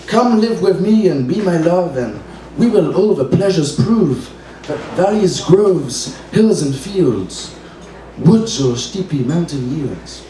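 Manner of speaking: put-on slow, lofty reading of an old English verse; grand olde-English verse reading; old-fashioned poem recital. Shown as a demonstration. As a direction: recite it like classic poetry, drawing out the lines. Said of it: "no one today speaks like this".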